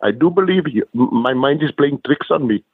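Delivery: lightly voiced cartoon character; a hint of a goofy cartoon voice; Simpsons character impression. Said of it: "that guy from The Simpsons".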